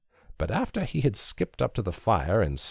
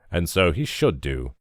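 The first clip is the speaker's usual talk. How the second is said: preachy; 2 semitones lower than usual. A narrator's reading. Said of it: "as though from the pulpit".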